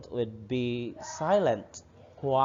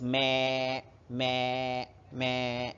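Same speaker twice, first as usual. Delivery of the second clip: goat bleat; 4 dB quieter, much slower than usual. Shown as a demonstration. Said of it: "A goat says".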